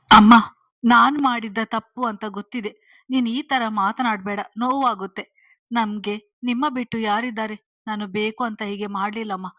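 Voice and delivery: daughter's insistent appeal; earnest pleading. A narrator's reading. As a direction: plead your case, opening loud. Daughter pleading with upset mother.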